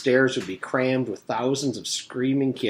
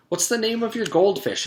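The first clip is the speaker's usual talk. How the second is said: teacher voice; 11 semitones higher than usual. Acted. Teacher asks about fish.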